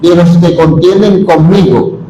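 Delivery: slow, deliberate Bible reading; slow solemn reading; solemn scripture reading. Acted. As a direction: read the prophet's words with weight.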